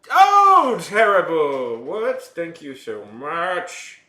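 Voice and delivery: high, loud, delighted squeal stretching slowly into thanks; high excited gushing; thrilled surprise. Real, not acted. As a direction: gush at a surprise raid. Thrilled reaction to a new raid.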